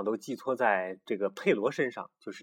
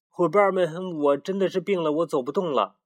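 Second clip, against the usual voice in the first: higher, whiny made-up excuse; feigned sickness; 6 semitones higher, 4 dB louder than usual. Acted. The timid rooster tells his friends he is ill, whiny. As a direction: pretend to be too sick to go.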